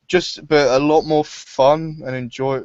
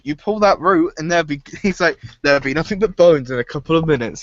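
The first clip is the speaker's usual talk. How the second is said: higher, hammed-up warning voice, fast at the end; Buck warning; 4 semitones higher than usual. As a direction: play up the grim warning. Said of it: "It's like".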